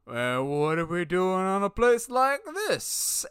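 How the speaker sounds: slow, drawn-out smooth character impression; Billy Dee Williams. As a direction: stretch it out as a movie-star entrance line. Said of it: "Billy D. Williams comes out to do".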